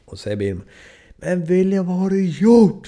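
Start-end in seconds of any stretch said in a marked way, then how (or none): 1.2-2.9 high, slow, loud shriek of a shocked mother; hammed-up mum yelling in shock; imitated mother's scream. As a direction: shriek it like mum finding the crashed car. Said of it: "skrek hon så här".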